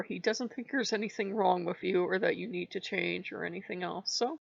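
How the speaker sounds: stuffy blocked nose; stuffed up nose. Real, not acted. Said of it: "I know I'm all stuffed up".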